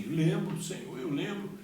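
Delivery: high, fervent assent; crying out in answer. Retold or imitated. Man confirms to God that he remembers, crying out fervently. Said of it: "Eu falava assim".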